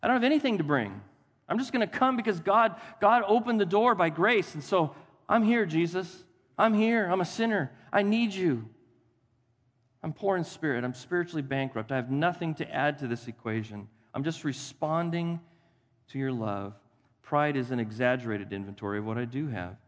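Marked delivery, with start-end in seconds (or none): 5.3-16.7 humble prayer. Acted.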